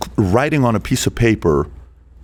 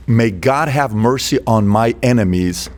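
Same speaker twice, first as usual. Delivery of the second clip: slow quoted line; slower than usual. Retold or imitated. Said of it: "He says".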